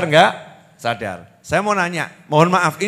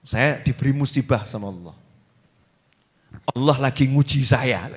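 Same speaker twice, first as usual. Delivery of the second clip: veiled protest; 6 semitones lower, 5 dB quieter than usual. Retold or imitated. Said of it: "seperti protes itu loh ya, tapi dialus no bahasanya".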